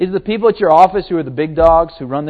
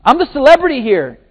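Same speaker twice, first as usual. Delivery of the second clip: mock arrogance; 8 semitones higher, 6 dB louder than usual. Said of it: "He didn't talk like that".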